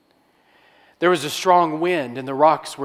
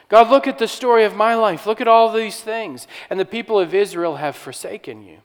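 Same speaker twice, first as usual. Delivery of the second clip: lonely complaint; 3 semitones higher, 5 dB louder than usual. Retold or imitated. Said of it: "You can hear in his voice the tone of loneliness".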